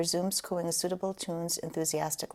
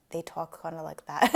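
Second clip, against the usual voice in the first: hammed-up Rhode Island accent, louder; bad Rhode Island imitation; 5 dB louder than usual. Showing the interviewer how her family talks, bad Rhode Island impression. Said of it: "It's a really bad imitation".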